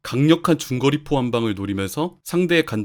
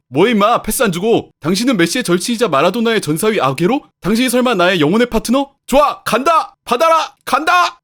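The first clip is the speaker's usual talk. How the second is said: loud, high yells for the ball; rising higher with each shout; excited striker shouting; 9 semitones higher, 7 dB louder than usual. Acted. Acted striker yelling for the ball. (공을 달라고 점점 높아지는 외침)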